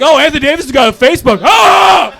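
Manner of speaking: high, rushed quote ending in a yell; mock excited yell. People spotting a Facebook page, mock excited yell. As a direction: build to a high mocking "Ah!".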